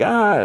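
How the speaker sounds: small high-pitched comic scream; mock scream. Friends running from the flame whip, mock scream. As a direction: imitate fleeing screams without much volume. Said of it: "like, screaming".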